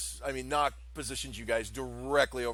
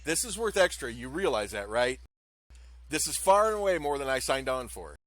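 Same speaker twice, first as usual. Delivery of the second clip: grumbling demand; 2 semitones higher, 5 dB louder than usual. Acted. Nock demanding extra pay.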